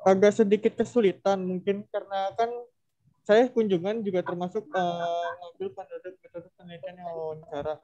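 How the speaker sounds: muffled behind a mask; through a face mask. Real, not acted. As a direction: speak through a cloth mask. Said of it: "Apa karena kamu pakai masker?".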